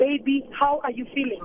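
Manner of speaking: ordinary delivery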